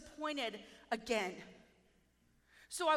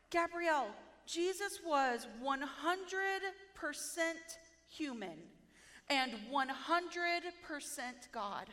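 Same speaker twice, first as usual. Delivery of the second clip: slow, softer, patient explaining; gentle teaching; 5 dB quieter, slower than usual. Retold or imitated. Holy Spirit patiently explains to her, slow and gentle. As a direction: spell it out slowly and kindly. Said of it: "so sweet, so gentle".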